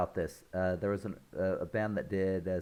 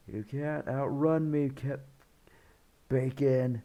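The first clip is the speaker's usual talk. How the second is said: Nebula; 5 semitones higher than usual. Retold or imitated.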